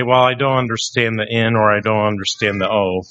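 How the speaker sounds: quick, smug sarcastic reply. Retold or imitated. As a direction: play it snarky and fast. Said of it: "the sarcastic person would say".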